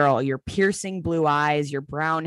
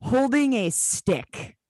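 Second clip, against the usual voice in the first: slow, higher mock-British voice; British accent; 7 semitones higher, slower than usual. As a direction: draw it out in put-on British. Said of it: "Should we do this one in a British accent?".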